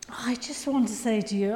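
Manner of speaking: hushed, breathy aside; whisper. Real, not acted. Preacher confiding to the congregation in a whisper. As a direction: lean in and whisper it.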